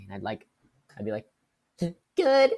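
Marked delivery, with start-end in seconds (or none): 1.8-2.5 high, loud laughing answer; giggling loud reply. Retold or imitated. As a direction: laugh through the words.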